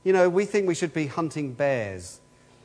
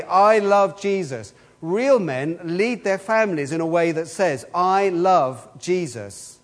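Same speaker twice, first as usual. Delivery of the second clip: slow and louder, each line driven home; forceful preaching; 3 dB louder, slower than usual. Acted. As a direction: proclaim it to the men like a rallying call.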